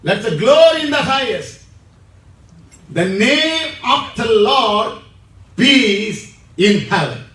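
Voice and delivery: loud, fast proclamation; proclaimed loud. Real, not acted. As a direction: ring it out to the congregation. Preacher proclaims scripture loudly.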